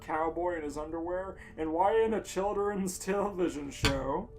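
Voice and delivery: ordinary delivery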